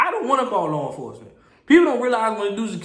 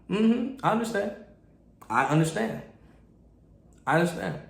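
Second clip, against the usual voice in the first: softer, placating acknowledgement; playing along; 2 semitones lower, 5 dB quieter than usual. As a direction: humour them, quietly and evenly. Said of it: "I know how to play the card".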